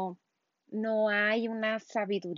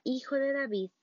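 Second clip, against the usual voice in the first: mild plea; 4 semitones higher, 3 dB louder than usual. Retold or imitated. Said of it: "y la mujer decía".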